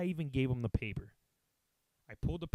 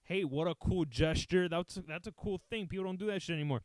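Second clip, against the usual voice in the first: imagined kind stranger; 3 semitones higher than usual. Retold or imitated. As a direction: play an admiring passerby, stretching the words. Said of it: "Not maybe like".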